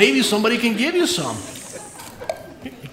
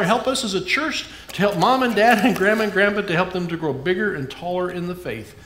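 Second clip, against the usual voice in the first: prayer; 2 semitones lower than usual. Acted. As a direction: pray gently for the children and church. Leads closing prayer.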